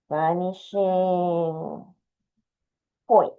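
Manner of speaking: "Vanishing point" drawn out syllable by syllable while writing it; slow dictation. Shown as a demonstration. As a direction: dictate "Vanishing point" very slowly, as if spelling it for the class. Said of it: "You don't have to put this name".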